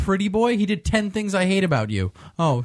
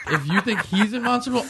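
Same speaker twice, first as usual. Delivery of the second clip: laughing; 5 semitones higher than usual. Real, not acted.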